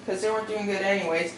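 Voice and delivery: high voice. Real, not acted. Vlogger greeting viewers and introducing canceled movies, high voice. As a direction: pitch it up high without meaning to. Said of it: "my voice is high".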